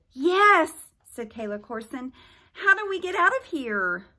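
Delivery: put-on high, loud girl's demand; high eager girl.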